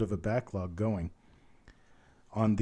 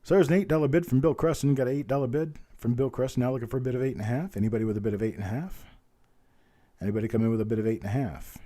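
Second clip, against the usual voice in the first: auctioneer's bid call; faster than usual. Real, not acted. Auctioneer asking the online bidders for more, in quick bid-call patter. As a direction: call the bids briskly like an auctioneer.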